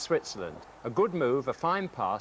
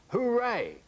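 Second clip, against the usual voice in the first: high, drawn-out hooray; mock-jubilant shout within a poem reading; acted cheer; 10 semitones higher than usual. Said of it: "jump around the room and shout".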